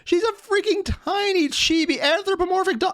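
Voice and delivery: very high-pitched, drawn-out disbelief; incredulous protest. Real, not acted. Man objecting to internet's take on cartoon dog, incredulous.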